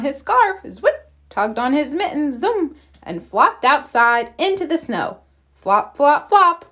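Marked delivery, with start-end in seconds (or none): 5.5-6.6 playful flop rhythm; flopping sounds. A narrator's reading. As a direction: bounce the flops, landing big on the last.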